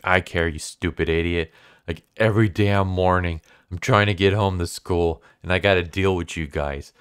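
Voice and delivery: hammed-up annoyed tirade at the ghost; pissed-off rant. Schoolboy fed up with a ghost making him late, heated rant. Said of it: "gets super pissed off".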